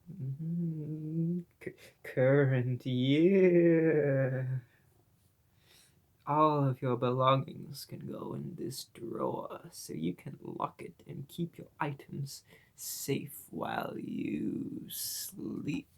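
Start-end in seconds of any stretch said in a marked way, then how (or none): 6.3-15.9 sweet creepy nurse. Acted. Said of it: "she says in her voice".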